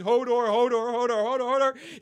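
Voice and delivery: high, loud, strained Hodor cries; imitating Hodor's convulsing cry. Recapping Hodor's breakdown, high strained cries. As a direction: cry out Hodor over and over, rising. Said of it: "as he's".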